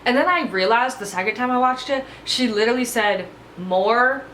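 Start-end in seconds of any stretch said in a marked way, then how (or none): 3.6-4.2 More pronounced like the ordinary word; phonetic More. Retold or imitated. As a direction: say More as one drawn word, not a name. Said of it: "like that".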